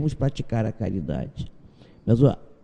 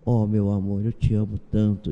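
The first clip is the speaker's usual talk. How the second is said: tender; 5 semitones lower than usual. Retold or imitated. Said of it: "com tanta ternura".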